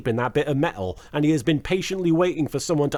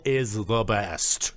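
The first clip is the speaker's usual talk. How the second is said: emphatic gushing; 7 semitones lower, 3 dB quieter, much slower than usual. Real, not acted. Gushing over the suit-up roll call.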